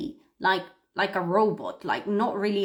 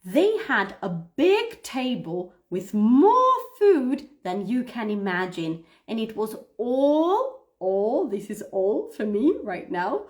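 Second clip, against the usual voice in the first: expressive reading. Shown as a demonstration. Teacher re-reading the paragraph, playing Caroline, with feeling. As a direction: act it out as if the feast is yours. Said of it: "So one more time".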